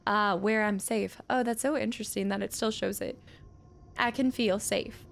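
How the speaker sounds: a lightly voiced old widow reading her letter; old widow's letter. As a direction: read it as the bitter old miner's widow. Reads old woman's letter aloud.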